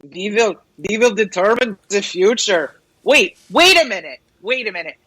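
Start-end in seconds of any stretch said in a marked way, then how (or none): 0.0-2.7 imitating Klaus Schwab in a mock German accent; a lightly put-on German accent, low and menacing; German accent, a touch villainous. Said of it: "In his German accent".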